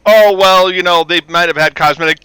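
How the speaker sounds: mocking quote. Mimicking fans explaining away Klingon makeup changes, mocking. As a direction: mimic the over-explainers, loudly. Mocks fans' overanalysis in their words.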